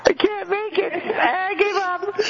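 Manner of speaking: high, helpless laughter cracking through the words; can't get the line out for laughing; laughing to tears. Real, not acted. Reading a musician's quote aloud, breaking into high helpless laughter. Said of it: "too many tears in my eyes".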